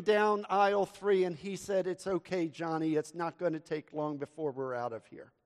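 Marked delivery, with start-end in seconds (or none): 1.9-5.3 lightly imitated patient dad, softer; understated calm, a little hushed; calm father. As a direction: retell a dad's mild, quiet reassurance. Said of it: "once again very calmly say".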